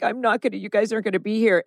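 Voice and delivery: mildly whiny imitation, slightly high. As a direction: lightly imitate a whiner's complaint. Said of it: "he is doing his whiny thing".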